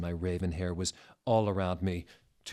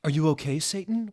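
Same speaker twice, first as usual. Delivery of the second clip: concerned; 9 semitones higher, 5 dB louder, faster than usual. Acted. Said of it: "we asked concernedly".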